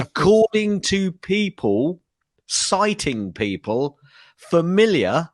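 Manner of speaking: drawn-out "familiar", left hanging on a rise; mock-emphatic reading. Shown as a demonstration. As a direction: reread it slowly, leaning on "according" and "familiar". Mocking the garbled line by rereading it.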